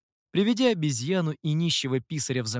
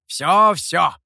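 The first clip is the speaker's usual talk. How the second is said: Всё-всё! said louder with a falling, certain end; firm confirmation; 3 semitones higher, 9 dB louder than usual. A narrator's reading. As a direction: bang out Всё-всё! as final. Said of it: "подтвердил демон".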